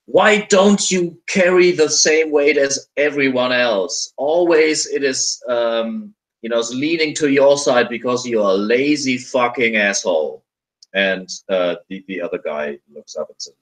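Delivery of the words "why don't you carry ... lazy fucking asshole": higher-pitched angry tirade, only half shouted; mock angry scream. Game master voicing a guard screaming at his companion, mock angry. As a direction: berate them in a raised, hammed-up scream. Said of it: "and he screams".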